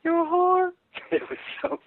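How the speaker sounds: tiny, very high doll squeak; little doll voice. Retold or imitated. Co-star imitates David's joke at the photo shoot, little doll voice. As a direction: squeak it like helium from a balloon. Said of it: "this little doll voice go".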